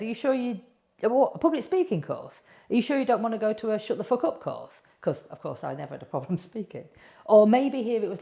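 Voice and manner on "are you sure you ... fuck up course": higher teasing husband voice, a bit faster; lightly voiced sceptical husband; mocking husband. Husband teasing her about a speaking course, light mock. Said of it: "my husband said".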